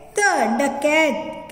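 slow, sounded-out डकैत; slow blending. Shown as a demonstration. Teacher slowly joins letters into डकैत. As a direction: draw out डकैत as you join the letters. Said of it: "कैसे पढ़ेंगे?".

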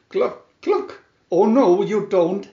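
high, loud clucking refusal; indignant hen. A narrator's reading. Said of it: "said the little red hen".

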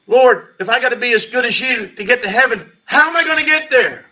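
man crying out to God, high and desperate; anguished plea. Retold or imitated. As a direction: throw the question up to God in anguish. Desperate prayer recalled.

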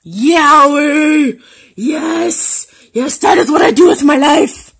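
loud, high fangirl cheer; gleeful high outburst; excited exclaiming. Real, not acted. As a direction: shout it with giddy, high-pitched enthusiasm. Hyped exclaiming about yaoi.

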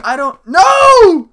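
shouting no through laughter; laugh-yell a refusal; high laughing shout. Real, not acted.

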